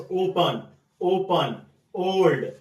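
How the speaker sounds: ओपन and ओल्ड with a full rounded 'oh'; long o sound. Shown as a demonstration. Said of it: "ओ का ये sound है". (ओपन, ओल्ड में लंबी ओ की साफ़ आवाज़)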